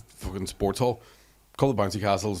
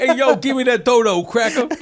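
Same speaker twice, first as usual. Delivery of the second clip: high, laughing toddler impression; laughing mock voice; 13 semitones higher, 8 dB louder, slower than usual. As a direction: cackle through the cheeky insult. Mocking niece's cheeky insult.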